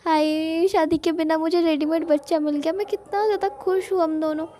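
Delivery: retold squeal of happiness; gushing joy. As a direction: gush like a couple who just got a child for free. Couple gushing over ready-made child.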